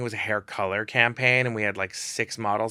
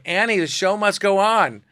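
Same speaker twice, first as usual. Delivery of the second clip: coaxing; 9 semitones higher, 6 dB louder than usual. Retold or imitated. Coaxing model out of closet.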